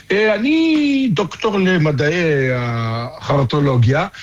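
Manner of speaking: slow, drawn-out, dropping low on the made-up title; mock pompous title. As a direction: announce the bogus doctorate with fake grandeur. Mocking consultant's title.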